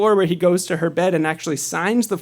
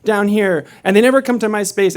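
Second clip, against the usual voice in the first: higher-pitched mock complaint, only lightly raised; mild retold yelling; 5 semitones higher, faster than usual. Older woman complaining to her driver, mildly mimicked anger. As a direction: imitate an angry passenger without really yelling. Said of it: "she started yelling at me right away".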